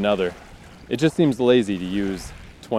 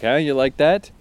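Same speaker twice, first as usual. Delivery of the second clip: taunting questions pitched a little higher; obnoxious; 3 semitones higher than usual. Acted. She tips pews to goad him, obnoxious taunting. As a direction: needle him like an obnoxious bully. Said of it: "just to be obnoxious".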